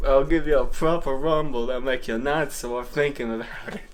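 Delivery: mock Scottish. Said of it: "absolutely spot on".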